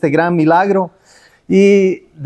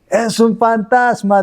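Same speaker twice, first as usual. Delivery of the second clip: mild frightened cry; 6 semitones higher than usual. Retold or imitated. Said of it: "Llenos de miedo".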